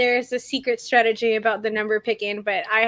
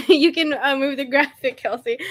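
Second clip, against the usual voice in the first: talking through real giggles; laughing; 2 semitones higher than usual. Real, not acted. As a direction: try to carry on while laughing. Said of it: "I'm sorry, I'm laughing".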